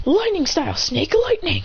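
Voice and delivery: high-pitched technique call; called-out attack. Retold or imitated. Mitsuki triggering a memory with his move, high attack call.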